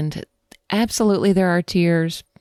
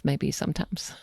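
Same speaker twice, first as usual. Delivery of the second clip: whispered aside; 3 semitones lower, 8 dB quieter than usual. Real, not acted. Soft aside about hiding grief.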